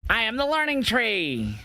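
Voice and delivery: hammed-up high wrestler voice; mock Jericho voice. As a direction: ham up a goofy wrestler intro. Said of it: "he'll be like".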